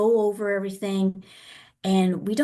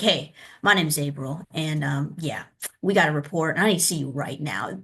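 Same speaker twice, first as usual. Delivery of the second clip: low, matter-of-fact demand; wrong tone, brusque; 4 semitones lower than usual. Shown as a demonstration. Social worker demanding to see a parent now, brusque. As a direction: imitate a blunt caseworker, no softening. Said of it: "the tone of the voice".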